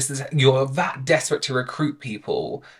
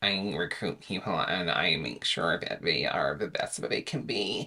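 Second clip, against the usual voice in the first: play-acted listless, bored, unsure, very low, soft monotone; 8 semitones lower, 9 dB quieter than usual. Mocking a recruiter's own description of his work, imitating someone unconfident. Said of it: "he doesn't sound very confident in himself".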